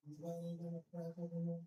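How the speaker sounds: high, fast put-on street voice; African American accent. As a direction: put on a black voice, fast and loud. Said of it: "use my black voice".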